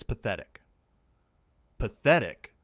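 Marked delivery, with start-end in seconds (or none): 1.8-2.6 loud, outraged echo; affronted, raised-voice exclamation; voice shooting up. A narrator's reading. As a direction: echo it in indignant disbelief. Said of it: "Denise's voice went up an octave".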